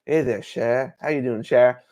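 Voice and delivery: low, casual impression of a comic-book charmer; Gambit. Fan voicing Gambit greeting Rogue on screen, light impression. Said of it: "him to go like".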